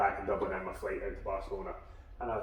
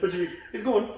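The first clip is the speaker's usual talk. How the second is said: incredulous; 12 semitones higher, 6 dB louder, faster than usual. Retold or imitated. Retold shock at intern leaving.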